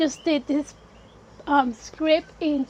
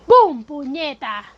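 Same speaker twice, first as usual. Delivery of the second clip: quoting Davey Martinez; 5 dB louder than usual. Retold or imitated. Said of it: "Martinez kindly said".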